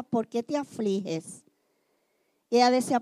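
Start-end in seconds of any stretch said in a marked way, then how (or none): 0.0-1.4 pregunta lenta y más baja; Elcana tierno. Retold or imitated. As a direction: preguntar despacio, casi consolando. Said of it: "le decía". (Elcana a Ana llorando, pregunta lenta y baja)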